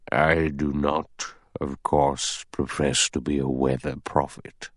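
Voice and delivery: very slow, deliberate judicial pronouncement; thoughtful old judge. Acted. Judge doubting a boat will come, slow and deliberate.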